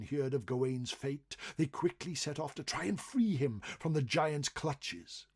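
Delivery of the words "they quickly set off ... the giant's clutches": ordinary delivery, nothing marked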